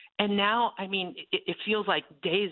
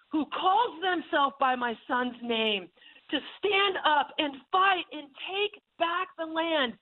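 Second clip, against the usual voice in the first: voice of the Lord; 9 semitones higher than usual. Retold or imitated. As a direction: proclaim it like a call to arms. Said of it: "what I could hear the Lord say".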